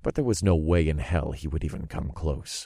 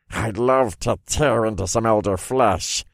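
tag; 4 semitones higher than usual. Acted. Familiar speaks in narrator's head.

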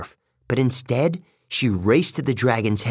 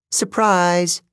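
higher-pitched gleeful gotcha; spring the surprise on your captive, higher; 7 semitones higher than usual. A narrator's reading. Annabeth springs an ambush.

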